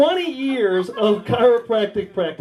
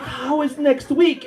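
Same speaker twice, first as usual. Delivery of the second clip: put-on higher, slow Russian-accented woman; Russian stripper; 6 semitones higher, slower than usual. Stripper asking her chiropractor for an appointment, slow Russian accent. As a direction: draw it out as an imitated Russian client. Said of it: "I think, Russian stripper".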